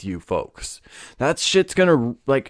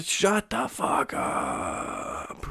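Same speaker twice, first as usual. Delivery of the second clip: hushed mock shush; 6 semitones higher, 9 dB quieter, much slower than usual. Mock hushing someone.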